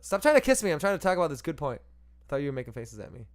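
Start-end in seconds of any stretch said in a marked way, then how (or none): 0.0-1.8 playful protest. Real, not acted. Playful scolding of co-host.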